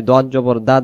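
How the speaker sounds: দদ জবর দা with an open "daa"; wrong light vowel. Shown as a demonstration. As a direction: end on a thin দা like Dal. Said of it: "দুই অক্ষর একই রকম বলি".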